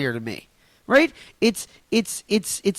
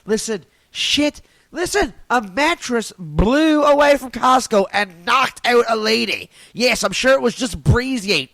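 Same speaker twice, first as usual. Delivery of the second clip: louder, worked-up rant; riled up; 3 semitones higher, 3 dB louder than usual. Real, not acted. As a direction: get fired up telling it. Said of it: "Getting all fucking riled up here".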